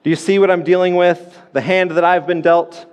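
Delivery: crying out to God. Retold or imitated. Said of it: "Do we ever cry out to God and say".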